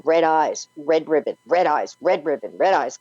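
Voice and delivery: put-on a frightened child stuck repeating it; dazed repeating. Little girl telling her sisters what she saw, dazed. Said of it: "like I'm losing it".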